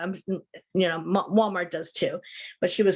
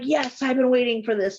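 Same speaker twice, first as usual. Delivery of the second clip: excited; 5 semitones higher, 4 dB louder than usual. Retold or imitated. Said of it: "He got all excited".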